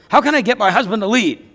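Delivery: a hint of an insistent wife's question; imitated wife. Wives questioning the marriage teacher, lightly imitated wife. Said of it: "The wives will say this".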